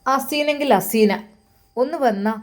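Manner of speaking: slow, loud call across the house. Acted. Mother calling Haseena from another room, loud and slow. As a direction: stretch the name and call her over.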